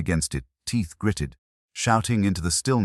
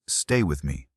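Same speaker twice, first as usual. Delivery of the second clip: cracked whisper; 4 semitones lower than usual. A narrator's reading. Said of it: "I whispered, my voice cracked and raw".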